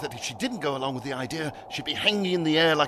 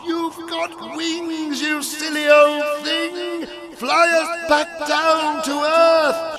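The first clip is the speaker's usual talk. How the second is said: high, loud, stretched-out shout; 12 semitones higher, 7 dB louder, much slower than usual. A narrator's reading. Algernon orders Fiddly to fly them down, shouting. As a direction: yell urgent orders, drawing out each word. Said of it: "shouted Algernon".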